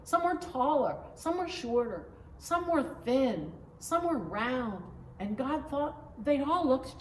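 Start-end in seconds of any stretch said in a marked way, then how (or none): 0.0-4.8 put-on child voice. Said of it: "said Samantha".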